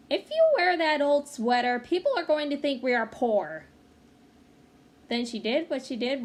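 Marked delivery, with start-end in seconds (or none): 0.1-3.7 mother's warning. Acted. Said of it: "My mother said".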